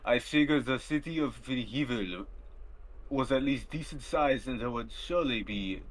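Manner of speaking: lightly put-on German officer voice, barely accented; a hint of a stern German villain reading his diary; movie villain german accent. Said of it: "let me try to do my best German voice".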